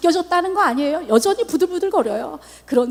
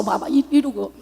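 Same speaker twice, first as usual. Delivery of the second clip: ordinary talk, nothing marked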